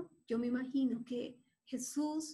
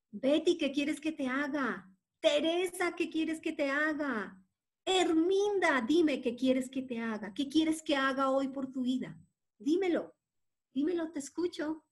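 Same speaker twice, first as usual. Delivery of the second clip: God calling by name; 3 semitones higher, 3 dB louder than usual. Acted. Preacher voices God calling congregants.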